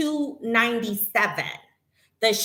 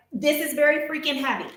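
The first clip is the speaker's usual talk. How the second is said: sarcastic disbelief; 5 semitones higher, faster than usual. Real, not acted. Mocking the carrier's claim.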